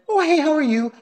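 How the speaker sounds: high, chirpy mock-friendly greeting; over-friendly neighbour greeting, voiced high; overly friendly. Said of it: "he's so overly friendly".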